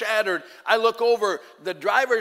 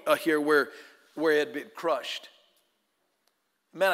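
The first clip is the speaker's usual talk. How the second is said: normal talking voice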